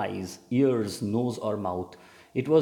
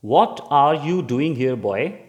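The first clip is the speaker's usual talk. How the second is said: put-on loud, sharp question to a boy caught out; teacher catching a boy out after dark, sharply; sharp demand; 3 semitones higher, 7 dB louder, slower than usual. A narrator's reading. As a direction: snap it out like a stern teacher.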